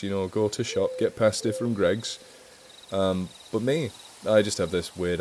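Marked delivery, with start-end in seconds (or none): 0.3-2.2 light Scouse accent demo; a quick, lightly done Scouse impression; casual Scouse accent, only lightly put on. Shown as a demonstration. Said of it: "Sound like this".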